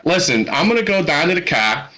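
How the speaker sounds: Pittsburgh accent, vowels flattened on request. Shown as a demonstration. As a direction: put on a broad Pittsburgh accent. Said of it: "without actually saying a phrase".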